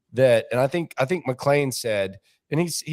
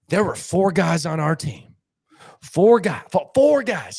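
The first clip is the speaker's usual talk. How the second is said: louder, higher mock insistence on four guys; mock emphatic; 4 semitones higher, 5 dB louder than usual. Boss ranting to staff, louder and higher. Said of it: "He's like".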